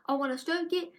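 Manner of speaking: put-on high, lightly gushing kid voice; mock a child melting over a fluffy dog; imitating a cooing kid. Toddler gushing over a fluffy dog, high mock kid voice.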